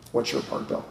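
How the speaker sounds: the question breathed out as a whisper. Retold or imitated. Sponsor's question echoing in his head, whispered. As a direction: hush it like a nagging inner voice. Same question repeated, now unvoiced.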